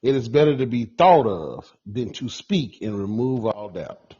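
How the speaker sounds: slow, measured restatement; deliberate repeat. Real, not acted. Man repeating his saying on request, slow and deliberate. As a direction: repeat it slowly, word by word.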